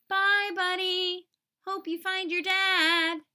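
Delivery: high, slow, squeaky elf farewell; little elf voice. Acted. Elves bidding Buddy goodbye, high and slow. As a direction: wave him off like a tiny elf.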